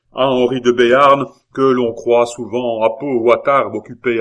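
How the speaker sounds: loud, emphatic denunciation; zealous orator. Acted. La Hurière denounces Henri de Béarn, loud oratory. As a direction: proclaim the enemy's name loudly to the hall.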